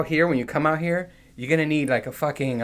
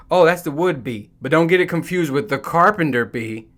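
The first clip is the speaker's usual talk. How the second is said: know-it-all local; 3 semitones higher, 4 dB louder than usual. Retold or imitated. Locals voiced as know-it-alls.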